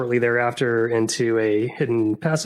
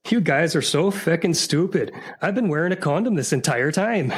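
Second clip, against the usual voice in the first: a higher, put-on Irish accent for the punchline; gleeful Irish accent punchline; Irish accent attempt; 6 semitones higher than usual. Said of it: "attempt three different accents".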